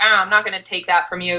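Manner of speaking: plain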